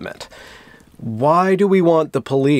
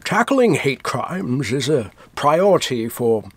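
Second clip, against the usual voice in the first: Sean Connery impression. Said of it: "I can only sound like Sean Connery".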